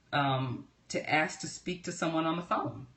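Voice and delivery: usual speaking voice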